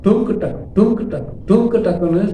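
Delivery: imitated drum beat. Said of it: "sound போடும்".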